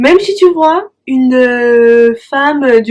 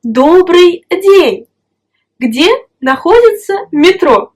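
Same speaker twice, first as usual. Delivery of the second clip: a mock polite stranger asking the way; teacher acting a passer-by; 3 semitones higher than usual. Shown as a demonstration. A teacher acts out stopping someone in the street, politely. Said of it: "tu lui dis".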